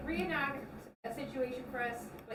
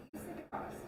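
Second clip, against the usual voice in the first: unvoiced hushed repeat; whisper; 8 dB quieter, faster than usual. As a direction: whisper it close and teasing.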